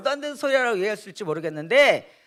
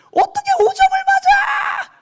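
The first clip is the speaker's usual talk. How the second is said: much higher, louder, slow mocking shout; teasing father; 6 dB louder, slower than usual. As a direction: drag it out, mock-scolding like a joking dad. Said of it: "이렇게 얘기하신 거예요". (아들 점수 보고 놀리는 아버지, 높고 크게 느리게 외치기)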